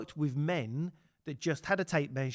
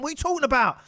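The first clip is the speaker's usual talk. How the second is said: alarmed disbelief; 11 semitones higher, 10 dB louder, much faster than usual. Retold or imitated. Boss hears of crash.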